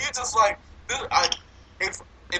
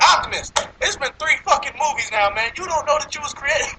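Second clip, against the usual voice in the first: higher-pitched, exasperated telling-off; exasperated scolding; 6 semitones higher than usual. Acted. Fan ranting at Optimus after three movies, exasperated. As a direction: scold him in disbelief, pitch lifted.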